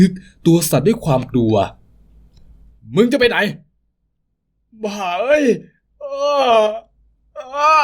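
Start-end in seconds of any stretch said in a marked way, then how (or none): 2.2-5.4 higher, slow, enraged; angry yell. Acted. Thug yelling after the escaping father, higher and slow. 6.0-7.8 high anguished scream; cry of pain. Acted. Father crying out as the knife strikes him, high scream.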